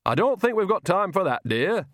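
put-on high, sweet old woman's coo; a lure pretending to be kindly; fake Nanny voice. A narrator's reading. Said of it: "said the voice".

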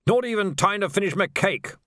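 high, plaintive protest; plaintive dead lord. A narrator's reading. Dead lord pleads with Death, high and plaintive.

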